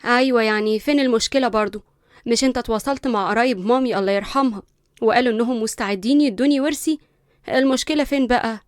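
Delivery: Linda, loud and dismissive to the lawyer; cold spoiled heiress. Acted. Linda coolly brushing off the family lawyer, loud and dismissive. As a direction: brush him off, coolly arrogant. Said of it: "ببرود".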